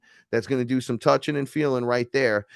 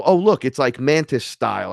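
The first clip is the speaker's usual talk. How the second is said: joking quip; 3 semitones higher, 5 dB louder than usual. Retold or imitated. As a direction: crack a joke at the teacher, playful. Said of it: "I was making a joke".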